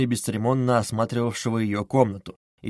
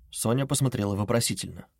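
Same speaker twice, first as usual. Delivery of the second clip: ordinary delivery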